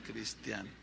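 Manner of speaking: repite "Cristiana" entre risas, más bajo; "Cristiana" dicho con una risita; laughing. Real, not acted. Laughing repeat of the word. ("Cristiana" riéndose por lo bajo)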